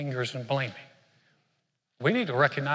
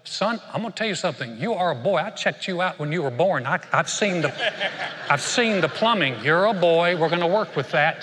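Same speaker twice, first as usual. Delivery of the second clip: lightly acted parent, higher and increasingly loud; firm parent to son; 3 semitones higher, 5 dB louder than usual. Parent setting a confused son straight, firm and emphatic. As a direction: lay down the truth, building to emphatic volume. Parent correcting child in story.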